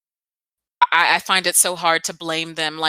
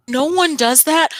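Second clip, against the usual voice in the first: incredulous outburst; 9 semitones higher, 4 dB louder than usual. Retold or imitated. Retold incredulous reaction.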